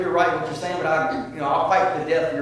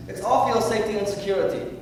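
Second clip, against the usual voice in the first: mock guards; 8 semitones higher than usual. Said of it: "you know what they told the Jews?".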